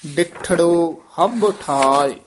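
ਡਿਠੜੋ ਹੱਬ ਠਾਇ slow, doubled consonants pressed; tightly pressed. Shown as a demonstration. Teacher modelling the verse, ਡਿਠੜੋ ਹੱਬ said tightly. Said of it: "ਕਸ ਕੇ ਹੀ ਪਦ ਉਚਾਰਨ".

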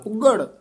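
ਉੱਗੜ with the tonal "gh" sound, pitched high; ਉੱਗੜ with gha. Shown as a demonstration. Teacher correcting the consonant, high ਉੱਗੜ with gha. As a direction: say ਉੱਗੜ as "ugghar", tight and high. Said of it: "ਘੱਗੇ ਨਾਲ ਉਚਾਰਨ ਕਰਨਾ".

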